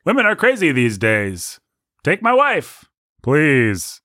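lightly voiced Catskills comedian; old joke delivery. Shown as a demonstration. Host telling an old Catskill comedians' joke, lightly performed. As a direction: set it up, then lift the punchline. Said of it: "a joke joke".

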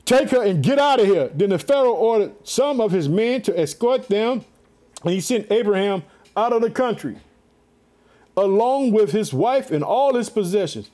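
measured, declaiming Bible reading; scripture reading. A narrator's reading. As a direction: read the passage out to a congregation. Resumes reading scripture aloud.

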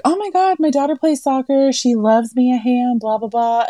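imitating a chatty older woman bragging; excited older lady. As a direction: gush like a thrilled grandmother. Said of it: "they're like".

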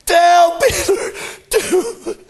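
slow, laughing tenderness; savoring it. Acted. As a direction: linger on "Peter" with a smile. Slowed, savored repeat.

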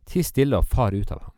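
stern rebuke. Acted. Jesus rebukes the unclean spirit, a firm loud command. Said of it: "Jesus truet den og sa".

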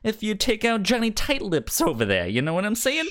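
shady mobster making an offer; mafia gangster. Retold or imitated. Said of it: "you're like".

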